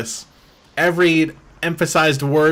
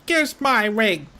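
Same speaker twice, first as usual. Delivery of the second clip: slow, higher mock boss voice; mock villain line; 8 semitones higher, slower than usual. Streamer mocking the villain's line, slow and smug. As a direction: savor it like a smug gangster.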